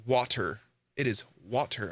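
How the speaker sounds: "water" with a crisp T; "water", open aw and careful T; careful pronunciation. Shown as a demonstration. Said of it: "I just said it with a D".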